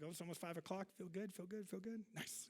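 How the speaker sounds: softly hamming up forced cheer; mock hushed self-talk. To himself, faking a good mood at the reminder, hushed. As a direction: murmur it like tricking yourself into feeling fine.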